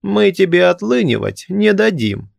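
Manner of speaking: very high, sharp scolding; old man snapping back; sharp rebuke. A narrator's reading. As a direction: cut him short. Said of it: "одёрнул его старик".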